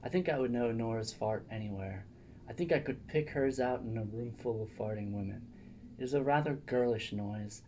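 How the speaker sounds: reading aloud. Acted. Reads a letter aloud.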